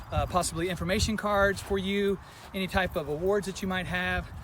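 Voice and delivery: slightly winded, catching breath between phrases. Real, not acted. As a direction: talk while still puffing from the walk. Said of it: "I'm a little out of breath".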